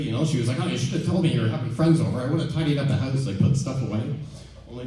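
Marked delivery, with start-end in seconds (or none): 0.6-4.0 mumbling mother. Retold or imitated. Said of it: "she'd start mumbling and tidying up".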